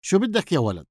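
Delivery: lightly voiced gruff baker; gruff, dry voice. A narrator's reading. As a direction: demand it in a rough, dry baker's voice. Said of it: "وسأله بصوت غليظ ناشف".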